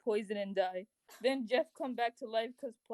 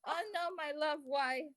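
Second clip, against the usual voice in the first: hammed-up high lament; mock heartbreak, starting high and falling; sad; 5 semitones higher than usual. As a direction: wail it lightly, for melodrama. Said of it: "you are full of sadness".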